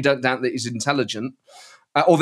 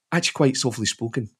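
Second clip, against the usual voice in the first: Douglas Ross impression; 4 semitones lower, 4 dB quieter than usual. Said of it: "Douglas Ross impression".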